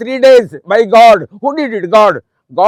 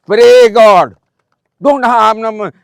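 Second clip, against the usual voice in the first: loud exhortation; 6 dB louder, much slower than usual. Real, not acted. Exhorting students to pray.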